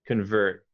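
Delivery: convert with a quick schwa, kʰənvərt; reduced first vowel. Shown as a demonstration. Teacher modelling convert with a reduced O. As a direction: say convert as kən-vert, not a full O. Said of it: "I wouldn't say the O, like a proper O".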